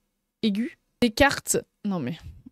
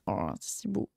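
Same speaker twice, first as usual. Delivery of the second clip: deep put-on voice, very quiet and low; gushing low voice; 11 dB quieter than usual. Streamer gushing over a sticker in a deep voice. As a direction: drop into a funny deep voice of awe.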